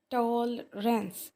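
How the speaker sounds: टॉलरेंस stretched slowly, syllable by syllable; broken into syllables. Shown as a demonstration. Teacher splitting the word for class, टॉलरेंस slow, syllable by syllable. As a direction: draw out each syllable of टॉलरेंस. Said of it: "कितने तोड़ बने हैं".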